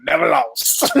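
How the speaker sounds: imitating a brash sports dad's catchphrase; punchy, drawn-out mock boast; LaVar Ball. Shown as a demonstration. Host quoting a boastful sports dad, playful impression. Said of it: "I'm gonna say it like him".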